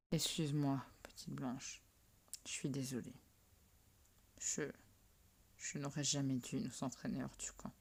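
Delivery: whispered guilty apology; soft remorseful whisper. Acted. Petit Rouge apologizing softly.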